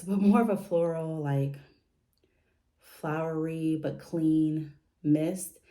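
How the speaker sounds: breathless, recovering between phrases; out of breath. Real, not acted. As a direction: still winded after the stairs. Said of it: "I have to catch my breath from going up those steps".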